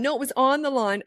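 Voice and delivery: imitating a child disputing, pitched high; mock sibling squabble. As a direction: argue back like a quarrelling kid. Acting children arguing over the line.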